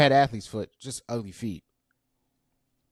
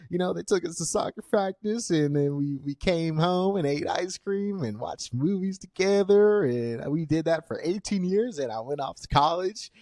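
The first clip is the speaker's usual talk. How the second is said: mock suburban kid; 5 semitones higher than usual. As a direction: play the perfect suburban kid, higher. Mock stereotyped suburban life story.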